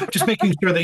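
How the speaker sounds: words spoken through a light laugh; chuckling while restating the question. Real, not acted. Host amused that the guest forgot the question, laughing.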